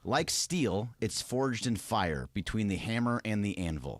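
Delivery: slow, weighty reading of a quote; dramatic quote reading. Shown as a demonstration. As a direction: read it slow and grand. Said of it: "I'm gonna read it to you here".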